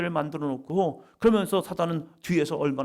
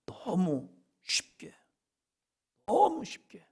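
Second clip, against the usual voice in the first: whisper; 8 semitones higher, slower than usual. Acted.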